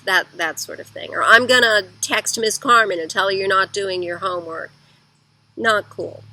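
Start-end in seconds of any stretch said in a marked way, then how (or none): 1.2-4.7 threatening parent. Retold or imitated. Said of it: "telling on him to other people".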